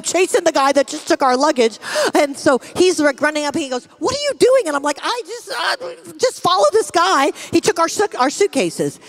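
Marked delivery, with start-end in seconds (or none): 4.0-4.7 high loud What are you doing; alarmed shout. Retold or imitated. Husband shouting at his wife as she chases their luggage, alarmed high yell. 5.0-9.0 flustered. Retold or imitated. Wife flustered while chasing.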